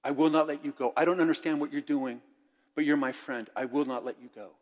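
a loyal friend's stubborn plea; earnest Samwise vow. Acted. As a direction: hold on to Frodo and refuse to let go. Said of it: "he grabbed him and says".

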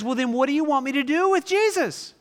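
Pilate asking. Acted. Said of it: "And then Pilate says".

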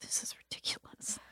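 breathy whispered mutter; whispered aside. Acted. Player character muttering to herself, whispered. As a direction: say it under your breath.

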